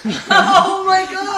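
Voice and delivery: loud, high cry bursting with laughter; drawn-out, helpless laughing exclamation; delighted laughing. Real, not acted. Host reminded of a favourite golf story, delighted laughing.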